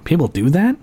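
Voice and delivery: imitating a stunned technician, rising in pitch at the end; mildly acted incredulous questions; naive disbelief. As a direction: react like you truly had no idea. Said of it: "Pacific Northwest naivete".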